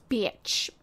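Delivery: unvoiced whispered curse word; whispered cuss. Real, not acted. Streamer hiding a swear from viewers, whispered. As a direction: slip the swear out under your breath. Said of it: "I'm trying not to cuss".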